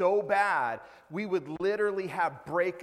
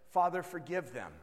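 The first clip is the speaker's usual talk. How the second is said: loud imitated punchline; 3 semitones higher, 10 dB louder than usual. Little boy answering the pastor, hammed-up and loud. Boy's punchline, acted out loudly.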